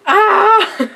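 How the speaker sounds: loud high yelp of frustration; exasperated shriek. Real, not acted. Ranting about her coworker, a loud frustrated shriek. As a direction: let out a fed-up yelp. Exasperated outburst mid-rant.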